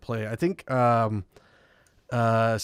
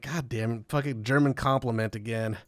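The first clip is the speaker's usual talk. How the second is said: resigned grumble; 3 semitones lower, 5 dB quieter than usual. Retold or imitated. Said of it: "We're like".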